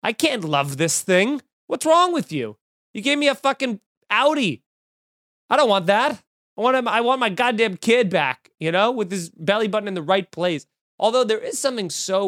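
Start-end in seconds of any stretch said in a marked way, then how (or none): 0.0-10.7 hammed-up fury over a newborn's outie; mock outraged parent. New parent complaining to the doctor, mock outrage. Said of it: "I'd be like".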